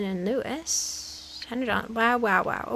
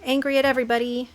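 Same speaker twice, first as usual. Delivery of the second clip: mock angry; 5 dB louder than usual. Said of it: "See, maybe if I'm mad".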